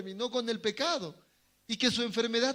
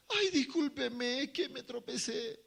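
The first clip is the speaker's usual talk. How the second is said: slow, sheepish excuse; mock apology; 4 semitones higher than usual. Preacher acting the borrower apologizing for the broken cup, mock sheepish. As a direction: play the sorry borrower lightly.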